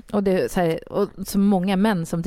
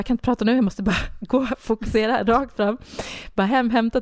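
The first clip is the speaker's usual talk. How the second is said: högre och ivrigt, med ett skratt; jäktat och fokuserat, full av adrenalin; adrenalinstinn; 4 semitones higher than usual. Retold or imitated. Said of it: "gick så hög på adrenalin". (stressat upprymd med fnitter)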